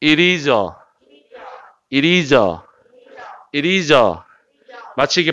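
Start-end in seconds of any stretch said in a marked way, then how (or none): 0.0-4.2 "It is a" run together as one word; quick linked pronunciation. Shown as a demonstration. Teacher giving students a model to repeat, quickly linked. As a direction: slide through "It is a" without gaps. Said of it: "빨리 넘어가니까 따라하세요".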